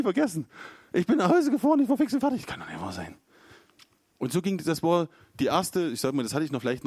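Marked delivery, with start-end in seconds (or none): 0.9-2.4 much higher, louder, exasperated; worked-up despair. Retold or imitated. Telling how he drove home shattered, high and loud. Retelling being shattered afterwards. 2.4-3.2 much softer, lower, stunned; quiet disbelief. Retold or imitated. Alone on the drive home, softly stunned. Inner disbelief after the encounter.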